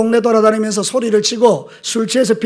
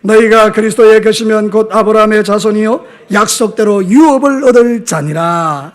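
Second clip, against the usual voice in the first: raised-voice scripture reading; reading aloud firmly; 4 dB louder than usual. Real, not acted. Pastor leads congregation reading the verse, firm raised voice. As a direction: read the verse out firmly for all to follow. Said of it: "큰 목소리로 한번 읽겠습니다".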